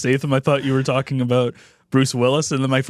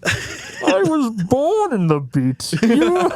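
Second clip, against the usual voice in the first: high, very slow mock villain drawl; mock Bane; 12 semitones higher, much slower than usual. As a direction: stretch it out like a pompous villain. Parodying Bane line.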